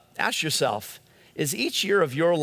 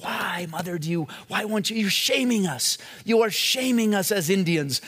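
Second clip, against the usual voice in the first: higher-pitched, pleading imitation of an Indian accent; K P Yohanan, thick Indian accent; 4 semitones higher than usual. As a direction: scold mother in a mock thick Indian accent. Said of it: "in his thick Indian accent".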